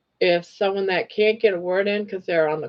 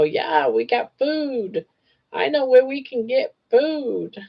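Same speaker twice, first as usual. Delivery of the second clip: voicing the rats; 6 semitones higher than usual. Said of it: "they'll know".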